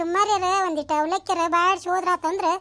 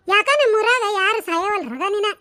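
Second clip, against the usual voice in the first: mock wailing; slower than usual. Mock wailing over fallen mother-in-law.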